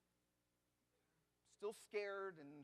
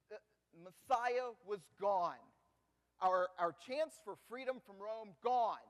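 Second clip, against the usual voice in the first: loud lament; 9 dB louder than usual. Acted. Lament for lost Messiah.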